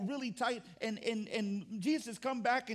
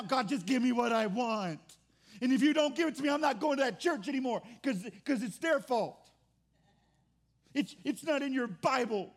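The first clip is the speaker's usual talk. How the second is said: louder, demanding whine at God; entitled whine; 4 dB louder than usual. Retold or imitated. Churchgoer demanding rewards from God now, louder whine. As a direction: stamp your foot like a spoiled child.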